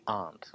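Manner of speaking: "aren't" with a silent R; dropped R. Shown as a demonstration. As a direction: say "aren't" like "aunt". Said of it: "most native speakers will drop the R".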